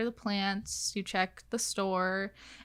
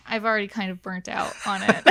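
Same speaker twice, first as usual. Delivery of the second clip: laughing; 3 dB louder, faster than usual. Real, not acted. Laughing admission of burnout.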